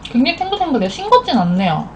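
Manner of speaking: speaking between noodle bites; talking while chewing. Real, not acted. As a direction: mouth full of noodles. Seen 0: face clear; mouth full, cheeks puffed, slurping noodles between words.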